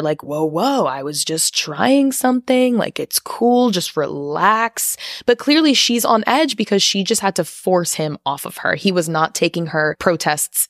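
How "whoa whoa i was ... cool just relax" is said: lightly mock someone brushing it off, stretching the words; gaslighting. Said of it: "immediately starts gaslighting her".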